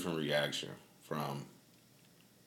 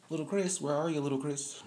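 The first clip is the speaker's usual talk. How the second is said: calling for little Chris; 9 semitones higher than usual. Retold or imitated. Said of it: "everybody hates Chris".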